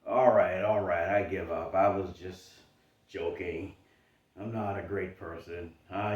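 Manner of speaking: hammed-up surrender to your doubt; mock defeated giver-up. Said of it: "you're gonna break".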